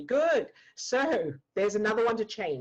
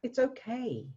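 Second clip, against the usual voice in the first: gentle reassurance; 6 semitones higher, slower than usual. Shown as a demonstration. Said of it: "do it in a nice way".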